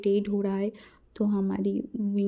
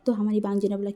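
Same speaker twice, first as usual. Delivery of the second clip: usual speaking voice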